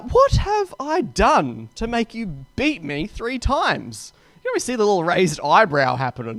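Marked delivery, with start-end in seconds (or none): 0.0-4.1 slow, deliberate mock retort; donkey retorts. Donkey talking back to its rider, slow retort. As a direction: spell out each word to the master. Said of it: "the donkey retorts".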